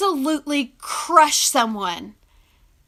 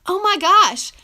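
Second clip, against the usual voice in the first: imitating grateful stranger; 7 semitones higher, 6 dB louder than usual. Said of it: "people tell me in public".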